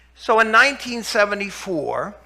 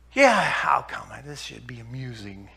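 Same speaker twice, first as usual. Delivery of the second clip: sarcastic; 6 semitones lower than usual. Retold or imitated. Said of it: "like I was some quack".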